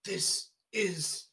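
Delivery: overacted death scene. Mock dying words of Roswell man.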